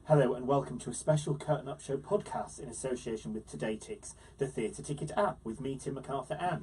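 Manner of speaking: lively podcast host introduction; presenter's intro. Acted. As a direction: open the show brightly for listeners.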